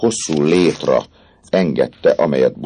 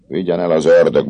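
sullen; 4 semitones higher, 4 dB louder than usual. Acted. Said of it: "mondta mogorván Clopin".

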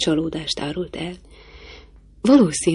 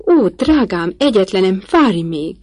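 shrieking; 2 semitones higher, 5 dB louder than usual. Acted. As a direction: plead with her daughter to stop, shrieking. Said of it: "Sikoltozott Lady Ingram".

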